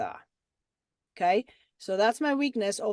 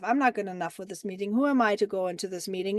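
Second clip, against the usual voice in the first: anxious inner voice; 3 semitones lower, faster than usual. Retold or imitated. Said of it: "the underlying root cause thought that I have".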